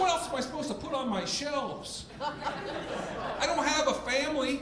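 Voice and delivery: high, pleading defense of the shelves; defensive self. Retold or imitated. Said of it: "I'm like".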